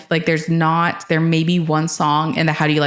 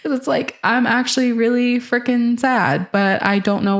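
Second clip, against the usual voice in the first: high strained voice; 7 semitones higher than usual. Retold or imitated. Voicing the singer's sadness.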